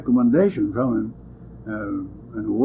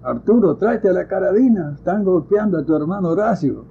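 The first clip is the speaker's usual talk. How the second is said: raised, higher calling out in Spanish; mock hollering; 5 semitones higher, 3 dB louder than usual. Women calling to Arturo for the rifle, a retold half-hearted holler. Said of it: "they come and start hollering".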